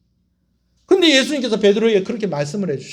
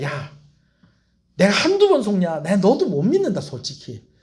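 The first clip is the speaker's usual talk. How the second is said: a hint of a scoffing, disbelieving tone; dismissive Jesus. Shown as a demonstration. Wrong version of Jesus, a mild scoffing brush-off to Peter. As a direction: toss it off like you don't trust him. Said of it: "이래서 이렇게 얘기하신 게 아니고요".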